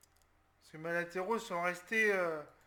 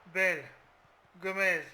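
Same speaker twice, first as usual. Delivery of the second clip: louder calls after a good pass; excited call; 7 dB louder, slower than usual. Real, not acted. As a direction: call it out, thrilled. Suit l'action en criant. (appel excité, plus fort)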